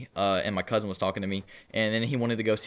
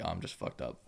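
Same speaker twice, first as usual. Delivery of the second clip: much lower and softer, sleepy; drowsy low murmur; 7 semitones lower, 11 dB quieter than usual. Retold or imitated. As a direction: mumble it half asleep. Drowsy answer to brother.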